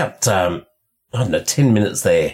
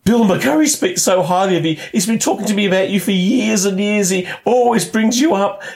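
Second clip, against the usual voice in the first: 1 gushing fan; 11 semitones higher than usual. Retold or imitated. Gushing fan quoted at trade show.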